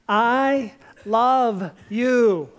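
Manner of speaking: a slow heartfelt I love you; tender I love you. Shown as a demonstration. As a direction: let each word land gently. Saying powerful three words tenderly.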